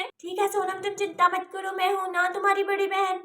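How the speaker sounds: soft, soothing undertone; hushed reassurance. Acted. Big sister promising to protect the child, hushed reassurance. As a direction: reassure her quietly.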